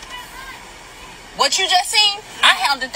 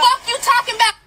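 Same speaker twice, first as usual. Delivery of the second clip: higher, snapping retort; angry yell; 7 semitones higher than usual. Real, not acted. Customer yelling back at the manager, angry. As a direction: throw it back hard.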